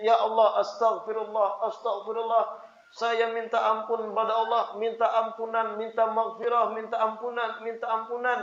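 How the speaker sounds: soft, steady pleading prayer; humble, repeated supplication; begging forgiveness. Shown as a demonstration. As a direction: plead quietly, phrase after phrase. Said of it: "Kita mengemis".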